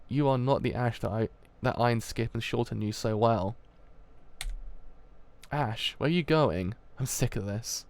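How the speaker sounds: a touch of hurt in subdued lines; lightly voiced dialogue. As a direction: friend and gangster hurting each other, understated. Continues reading the dialogue.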